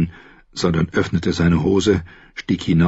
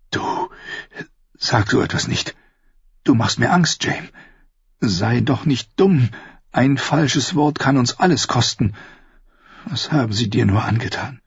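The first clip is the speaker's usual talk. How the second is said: higher, dismayed woman's voice; frightened Cersei; 6 semitones higher than usual. Acted. Sister scared by her brother's words, high dismayed voice. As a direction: plead with him in a higher, fearful voice.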